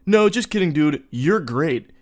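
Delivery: hammed-up fake buddy tone; playful. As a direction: laugh it off like a forced buddy. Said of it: "break into a playful smile, loosen up".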